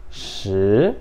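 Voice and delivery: "shi" starting low and rising; second tone. Shown as a demonstration. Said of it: "começa baixo e você vai subindo".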